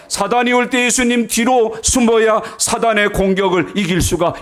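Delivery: high-pitched, rousing pulpit exhortation; forceful preaching. Real, not acted. Exhorts congregation at full force. (높은 소리로 힘차게 설교하듯)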